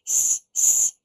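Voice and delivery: unvoiced pleading shh; begging shush. Grump begging the others to hush. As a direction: shush them urgently. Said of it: "begged Grump".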